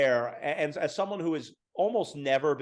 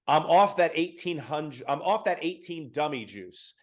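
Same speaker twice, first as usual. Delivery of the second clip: lightly voiced rapper, slow and drawn out; a hint of E-40 laying back on the words; imitating E-40. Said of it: "when he goes".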